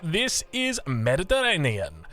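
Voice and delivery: slow, hammed-up Italian accent on "Mediterranean". Caster naming the new map for viewers, mock Italian accent. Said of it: "I say it with an Italian accent".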